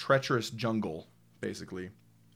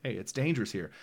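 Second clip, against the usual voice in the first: ominous showing; faster than usual. Shown as a demonstration. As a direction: let the danger creep in. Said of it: "showed you".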